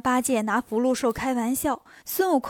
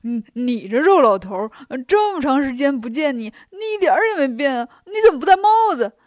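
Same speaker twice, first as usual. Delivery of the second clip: gleeful teasing; 6 dB louder than usual. Acted. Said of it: "笑着说".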